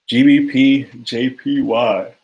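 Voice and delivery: stretched out through a yawn. Real, not acted. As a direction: say it mid-yawn, slowly. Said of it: "I don't know why I'm yawning so much".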